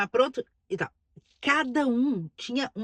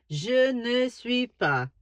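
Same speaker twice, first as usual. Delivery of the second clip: slow French; much slower than usual. Shown as a demonstration. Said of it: "eu falo".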